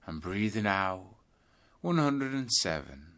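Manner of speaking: out-breath count, easing down. Shown as a demonstration. Teacher demonstrating the out-breath count, easing down. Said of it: "start counting your breaths backwards".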